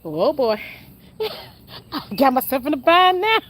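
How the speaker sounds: partner's line, breaking into laughter; retold through laughter; laughing imitation. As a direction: imitate him while cracking up. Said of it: "That man said".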